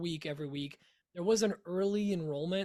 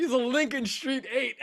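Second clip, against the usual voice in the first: laughing; 6 semitones higher, 5 dB louder than usual. Real, not acted. Laughing repeat of joke.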